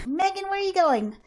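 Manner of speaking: laughing. Real, not acted. Kid runs off at night.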